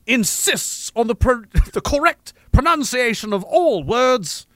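slow, precise fancy accent; over-enunciate in a put-on posh accent; slow mock-fancy diction; fake fancy accent. Shown as a demonstration. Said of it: "We just gotta get real fancy".

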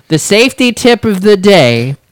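giggling her way through the safety tip; laughing through it. Retold or imitated. Coworker retelling the tip, breaking into laughter. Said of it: "She's like".

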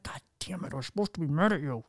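a light, hurried mock groan of giving in; mock exasperation. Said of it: "You're like".

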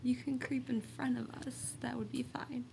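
hushed whisper to the dark; whisper, nervous and polite; talking to a ghost. Real, not acted.

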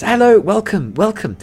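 high, eager, stumbling shopkeeper greeting; eager shop clerk. Acted. Shop clerk greets adventurers entering, high and eager. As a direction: rush out the welcome like a nervous clerk. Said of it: "he goes".

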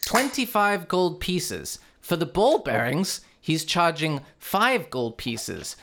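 put-on shopkeeper listing prices in Swedish accent. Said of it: "the accent is brutal".

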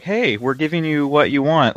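beaming fan-service voice; all happy. Retold or imitated. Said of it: "like, all happy".

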